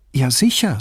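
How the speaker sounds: mild surprise at the question; surprised. A narrator's reading. Woman assuring Brunetti the boy understood, mildly surprised. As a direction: answer as if it were obvious. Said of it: "sagte sie überrascht".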